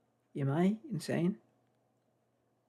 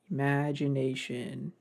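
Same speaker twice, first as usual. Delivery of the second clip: slow, drawn-out cartoon catchphrase, lightly imitated; understated rainbow-gesture catchphrase delivery; SpongeBob; slower than usual. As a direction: stretch the word out in mock wonder. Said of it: "doing the rainbow thing from SpongeBob".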